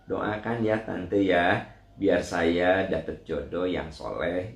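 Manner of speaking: slow, calm and polite answer; wise gentle reply. Shown as a demonstration. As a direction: answer kindly and unhurried. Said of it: "Jawab saja dengan bijaksana". (jawaban lembut dan bijak, pelan)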